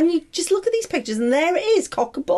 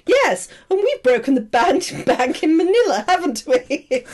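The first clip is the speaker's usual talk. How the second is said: mock-eager gang member piping up; 2 semitones higher than usual. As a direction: chime in as another character, half laughing. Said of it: "somebody else pipes up and goes".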